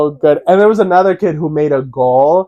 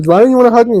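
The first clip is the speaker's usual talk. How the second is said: higher, louder whiny plea; pleading whine; 8 semitones higher, 5 dB louder, much faster than usual. Retold or imitated. Uncle whining at his nephew for a hug, higher and louder. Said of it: "And I was like".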